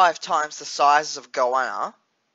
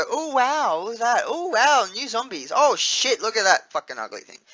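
excited reaction; 5 semitones higher than usual. Pretend. Imagined excited gamer reactions.

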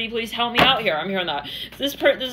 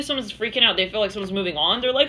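usual speaking voice

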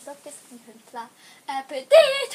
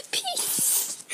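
laughing goodbye; 10 semitones higher than usual. Real, not acted. Laugh into sign-off.

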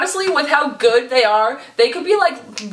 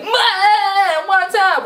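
excited singer greeting; 7 semitones higher, much slower than usual. Retold or imitated. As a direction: burst in like a hyper idol. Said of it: "you'd expect him to be like".

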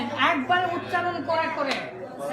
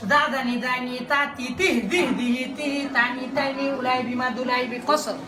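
faster recitation. Shown as a demonstration. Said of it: "তাড়াতাড়ি করেও মুখস্থ করার চেষ্টা করব".

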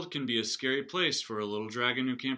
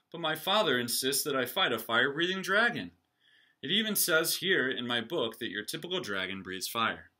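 knight; 2 semitones higher, 5 dB louder than usual. Acted. Knight complaining.

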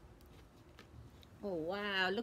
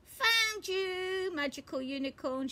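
higher, quick gleeful call; excited find; 8 semitones higher than usual. Acted. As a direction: rattle it off with glee. Peppa finds a glowing thing.

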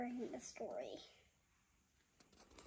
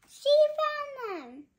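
high delighted gasp, then louder; gasping surprise; 10 semitones higher, 9 dB louder than usual. Real, not acted. Mother gasps to baby at the found pumpkins. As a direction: gasp like you just spotted them.

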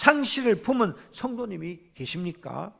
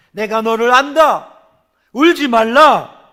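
louder and slower, a proclaiming "울지 말라"; commanding Jesus voice; 3 semitones higher, 9 dB louder than usual. Acted. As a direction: declare it like a voice from heaven, drawn out. Jesus's words voiced in sermon.

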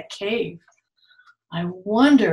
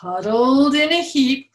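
whisper; 5 semitones higher, 6 dB louder than usual. Acted. Bedtime story, sleeping bear.

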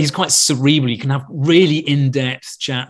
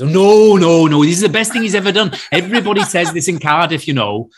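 higher, louder Welsh mother protesting; Welsh mum; 5 semitones higher, 4 dB louder than usual. Retold or imitated. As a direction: gush proudly in a sing-song Welsh accent. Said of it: "He sounds like Mickey's mother from Snatch".

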